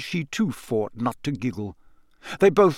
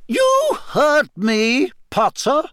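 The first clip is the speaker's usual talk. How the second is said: slow, higher and louder, no argument; very final; 12 semitones higher, 5 dB louder, much slower than usual. A narrator's reading. McGonagall ends the argument with Harry, very final. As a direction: close the matter for good. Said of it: "in a very final sort of way".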